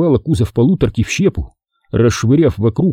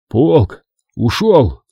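mild hoarse rasp; much slower than usual. Acted. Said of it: "прохрипел он".

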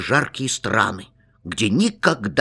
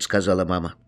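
ordinary delivery, nothing marked

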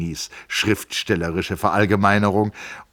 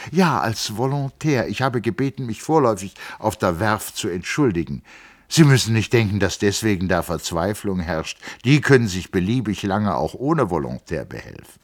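a hint of the eager young engineer, higher; young man explaining his family; lightly voiced Hans Castorp; 5 semitones higher, 6 dB louder than usual. A narrator's reading. Castorp telling Settembrini about his uncles, lightly voiced.

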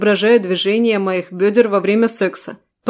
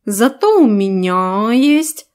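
smug cat voice; much slower than usual. Acted. Cat boasts.

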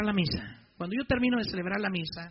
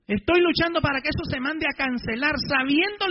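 retold angry protest; 7 semitones higher, 8 dB louder than usual. Priest retells confronting police captain.

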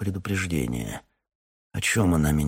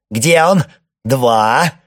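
furious, much higher, much louder yell; 7 semitones higher, 12 dB louder, much slower than usual. Acted. Boyko yells at the captain to return the idol, furious. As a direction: scream the order with a gun on the line.

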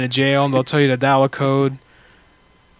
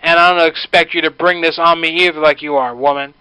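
stern scolding; 2 semitones higher, 3 dB louder than usual. Acted. Prank caller scolding woman sternly.

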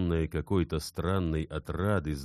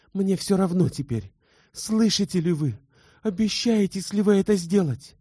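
much higher and louder, urgent begging; desperate pleading; 7 dB louder than usual. A narrator's reading. Elena demands Bersenev's oath, much higher and louder, frantic. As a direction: beg him to swear, almost frantic.

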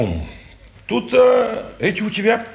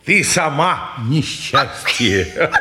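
со смехом; 3 semitones lower, slower than usual. Acted. Смеётся, дразня Бобову.

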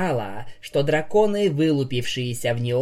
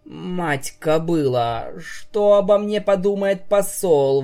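exclaiming; 5 semitones higher than usual. Acted. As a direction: panic about the ambassador. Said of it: "воскликнула Поняша".

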